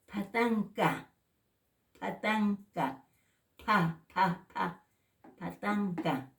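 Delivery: PATANCA and PA with a puff of air after the p; aspirated P. Shown as a demonstration. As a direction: breathe out on each p of PATANCA. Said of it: "Expirado da la H".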